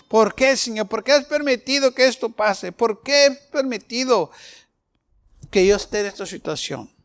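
imitating a complaint. Believer complaining to God, pleading. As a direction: whine at God as a sufferer.

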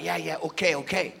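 low, soft, placating reply; imitated reluctant okay; meek agreement. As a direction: give in quietly. Wife giving in to orders.

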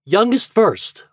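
high, loud, slow announcement; announcing. A narrator's reading. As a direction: proclaim it to the table. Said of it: "announced Toad".

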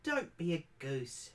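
mild, slowed granny scolding; scolding grandma. Acted. Grandmother gently scolding frightened grandchild, mild scold. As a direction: tut at a silly child. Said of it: "she scolds you".

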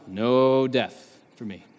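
slow, with a long held "no"; drawn-out mock-childlike refusal; bargaining refusal. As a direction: echo the toddler's refusal, stretching "no". Bargaining believer echoing the toddler.

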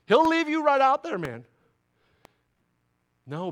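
ordinary talk

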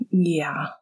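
soft whispered yeah; quiet. Acted. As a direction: barely breathe it out. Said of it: "Sirius said quietly".

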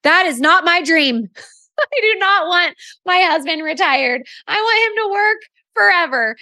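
high-pitched imitation of a Southern woman; Southern accent. Leader refusing to retire her husband, Southern accent. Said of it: "she had this Southern accent".

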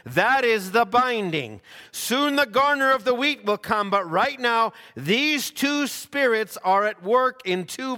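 measured, weighty preaching read; solemn exhortation reading. Acted. Preacher reading an end-time warning to the church, solemn and measured.

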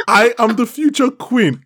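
the princess scolding the guard in disbelief, high and incredulous; mock outraged princess. Acting out the princess rebuking him.

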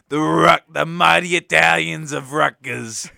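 bad mock Italian accent. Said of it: "the worst Italian accent you will ever hear".

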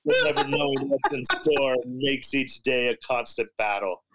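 solemn spoken-word recital; earnest poetry recital. Retold or imitated. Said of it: "I just say".

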